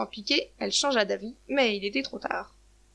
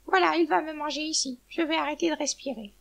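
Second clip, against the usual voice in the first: higher-pitched anxious thought; resigned, fearful hen; 5 semitones higher than usual. Acted. Hen expects to be eaten now, mildly alarmed. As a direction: lift the pitch as if bracing for the end.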